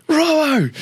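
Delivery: high, slow, booming yell; coach's shout. Retold or imitated. Coach yelling from the tin box at his player, booming and slow. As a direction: bellow it across the ground. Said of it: "you hear this voice from the tin coach's box".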